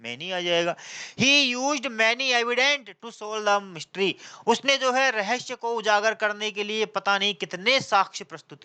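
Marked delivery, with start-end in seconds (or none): 1.2-4.1 very slow, word by word; slow example read. Shown as a demonstration. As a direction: read the example sentence out slowly for the class. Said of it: "teacher reading example slowly". (धीरे धीरे उदाहरण पढ़ना)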